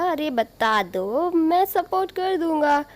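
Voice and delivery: slow, drawn-out teasing, rising high at the end. Acted. Suyang teases Wangji to confess his love, playfully drawn out. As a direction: coax him playfully, egging him on. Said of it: "Suyang उसे चिढ़ाते हुए बोला".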